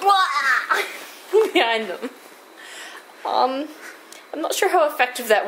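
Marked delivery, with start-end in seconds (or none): 0.0-0.8 mock yelp, a little higher; goblin cry. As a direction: toss off the goblin's silly wail. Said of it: "and then they went".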